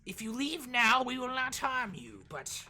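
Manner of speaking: high, loud otherworldly warning; eerie guardian voice. Acted. Hooded guardian warns the bunny off its home, high and eerie. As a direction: warn them off like a hive of creatures. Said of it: "they go".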